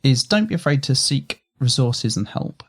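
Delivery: ordinary delivery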